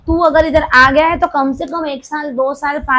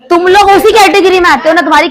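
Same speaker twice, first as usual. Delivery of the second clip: mock scolding; 4 semitones higher, 8 dB louder than usual. Real, not acted. Teasing students as noisy donkeys.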